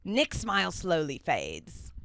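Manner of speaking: slow, rough attempt at a Scottish narrator; Ian's Scottish accent. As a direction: draw out the narration in tentative Scottish. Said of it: "I gotta get my Scottish accent going".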